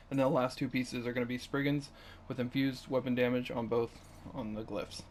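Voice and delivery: hoarse voice fading at the end; straining, voice failing mid-sentence; voice giving out. Real, not acted. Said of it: "I'm losing my voice here".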